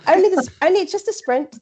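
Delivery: high, quick, giggly correction; laughing protest. Real, not acted. Telling the host she only entered the sprint, laughing.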